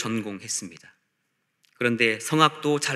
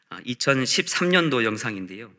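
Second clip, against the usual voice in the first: ordinary talk, nothing marked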